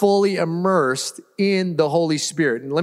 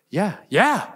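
eager yes; 5 semitones higher than usual. Retold or imitated. Convert eagerly agrees to baptism.

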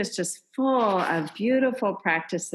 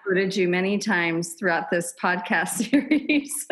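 laughing. Real, not acted. Laughing at own admission.

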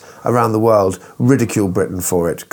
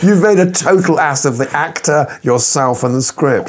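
indignant, worked-up tirade easing off; rant, outraged, then run out of steam; 4 semitones higher than usual. Real, not acted. Film fan answering the director's excuse, ranting. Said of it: "sorry to rant".

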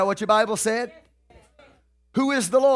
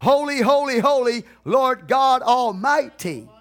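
beasts crying out; 3 semitones higher than usual. Retold or imitated. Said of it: "they're saying".

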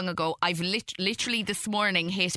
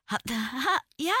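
awkward fake giggle, a touch higher; starstruck nervous laugh; 6 semitones higher than usual. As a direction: laugh nervously like meeting your idol. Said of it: "I'd just be".

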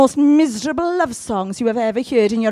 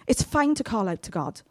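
slower, gentle repeat; slower reassurance; 3 semitones lower, 6 dB quieter than usual. Shown as a demonstration. Preacher gently repeating it to reassure the congregation. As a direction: ease it down and reassure.

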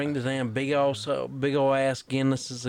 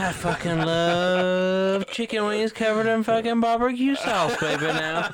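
hyped laughing shout; 6 semitones higher, 4 dB louder than usual. Real, not acted. Hyped shouting about wings.

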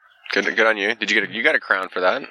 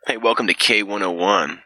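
morning radio host; 2 semitones higher than usual. Acted. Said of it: "a early morning talk show host".

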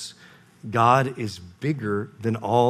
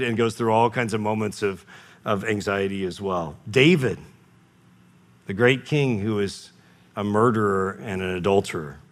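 usual speaking voice

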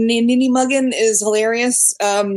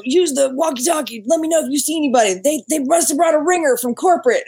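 imitating Faison Love; 3 semitones higher than usual. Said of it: "he's like".

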